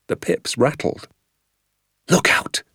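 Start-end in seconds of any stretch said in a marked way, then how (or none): 2.1-2.6 urgent hushed warning, no voice; sharp whisper. Acted. Father warning his son of someone coming, sharp whisper. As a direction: hiss it out low and sharp. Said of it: "he whispered sharply".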